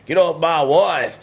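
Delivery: hammed-up jealous husband; imitated angry husband. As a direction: drawl it out like an outraged husband. Voices imagined armed husband.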